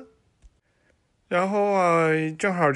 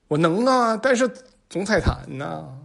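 cheeky retort; 5 semitones higher than usual. Acted.

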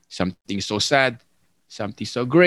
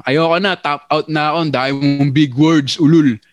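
mock frustrated basher; 3 semitones higher, 4 dB louder than usual. Basher giving up, cursing.

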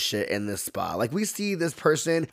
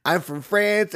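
higher-pitched mock French accent; fake French accent; 6 semitones higher than usual. Receptionist claiming her origins, fake French accent. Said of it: "this fake French accent".

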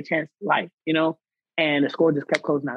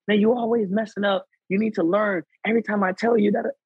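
imitating a nagging sergeant; 5 semitones higher than usual. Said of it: "talking to her crazy".

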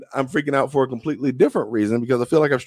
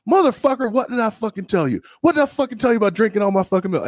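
high-pitched mock rage, spitting each fucking; furious yell; 10 semitones higher than usual. Friend shouting about his finished milk, high-pitched mock rage. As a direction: play the outraged friend, pitched way up.

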